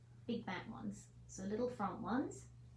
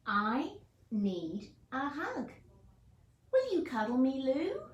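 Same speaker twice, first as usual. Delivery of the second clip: pleading hedgehog; 3 semitones higher, 6 dB louder than usual. Acted. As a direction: ask for a hug, longing and hopeful. Hedgehog asks for a cuddle.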